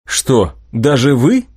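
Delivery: slow, mildly incredulous question; disbelieving. Acted. Young inventor doubting his powerful patron's helplessness, disbelieving. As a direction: question it as if you can't believe it. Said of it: "не поверил я".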